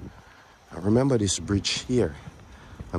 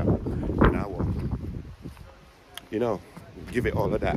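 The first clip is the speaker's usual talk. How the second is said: sassy strut voice; 4 dB quieter than usual. Shown as a demonstration. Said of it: "look at me now".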